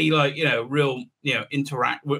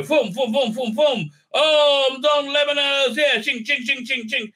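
mock hero voice; 7 semitones higher than usual. Mocking archer character's lines.

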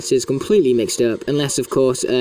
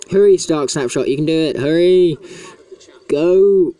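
higher-pitched, urgent egging on; urgent cheering on; 4 semitones higher, 4 dB louder than usual. Real, not acted. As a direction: urge the character on, getting louder by the end. Urging game character to hurry.

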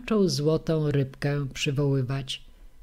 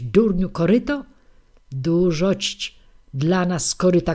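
loud scolding tirade; nagging wife yelling at husband; shouting old woman; 4 dB louder than usual. Acted. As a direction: berate him and order him back.

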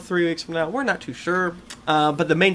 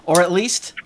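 whisper; 2 semitones higher, 4 dB louder than usual. Acted. Whispered ominous aside.

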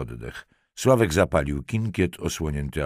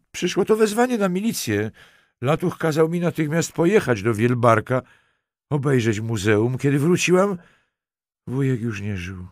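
much higher, distressed acted voice; tearful account; 8 semitones higher, 4 dB louder than usual. A narrator's reading. Crying Halinka tells detective of her uncle's death, tearful. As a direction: tell it through rising tears. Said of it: "Dziewczyna znowu zalała się łzami".

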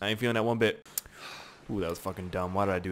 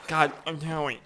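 lightly tough New Yorker scolding; mock New Yorker telling-off; New Yorker accent; 2 semitones higher than usual. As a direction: scold with a hint of New York. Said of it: "like, New Yorker on my ass".

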